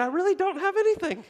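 put-on very high, light child voice; a kid walking off carefree; relieved kid. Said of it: "walking off thinking".

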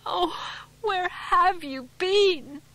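high, loud, crying out between sobs; a frantic wife weeping with relief; tearful and distraught. A narrator's reading. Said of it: "tears pouring down her face".

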